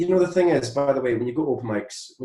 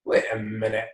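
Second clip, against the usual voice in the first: mock bewilderment; 6 semitones higher than usual. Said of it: "I'm like".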